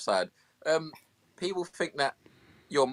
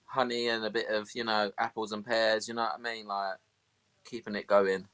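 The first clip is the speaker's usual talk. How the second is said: a hint of Cockney with rhyming slang; mild put-on Cockney banter; 4 dB louder than usual. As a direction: lay on light Cockney slang. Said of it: "have you got any Cockney for us?".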